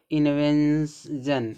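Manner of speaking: इन्वेंशन slowly, ending in a voiced jan; drawn-out इन्वेंशन. Shown as a demonstration. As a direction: stretch इन्वेंशन into in-ven-s-jan. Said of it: "इसको भी पढ़ें". (इन्वेंशन, धीरे, अंत में 'जन')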